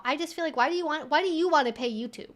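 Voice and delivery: ordinary talk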